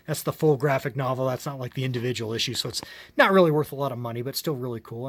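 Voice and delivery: worn, hoarse throat from talking. Real, not acted. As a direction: speak with a voice that's giving out. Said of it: "I'm losing my voice as I'm going here".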